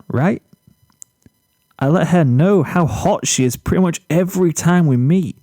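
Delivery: a hint of a smug boy bragging about his hair; boastful Zephyr. Zephyr to Flash over lunch, lightly cocky and self-pleased.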